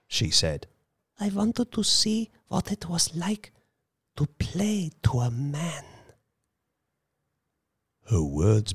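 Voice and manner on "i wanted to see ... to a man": restrained breathless voice. Acted. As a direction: hold back, almost out of breath. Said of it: "spoke in her restrained, breathless little voice".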